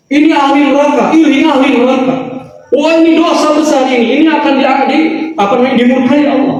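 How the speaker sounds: mock condemning preacher. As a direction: imitate a preacher passing judgment. Mimics preachers who condemn people. (meniru dai yang menghakimi, nada tinggi)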